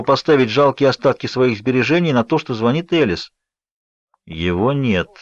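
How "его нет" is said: a cold, clipped cut-off; curt threatening. A narrator's reading. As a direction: shut the caller down, menacing. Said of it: "отрезал Джейкоб, и получилось довольно угрожающе". (угрожающе отрезать)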